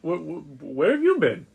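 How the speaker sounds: talking through food; mumbled with a mouthful; mouth full. Acted. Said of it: "half chewing food, kind of mumbling".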